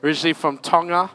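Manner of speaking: loud announcing of each name; calling out names. Real, not acted. Pastor introducing his team to the church, calling names out. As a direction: call the names out across the room.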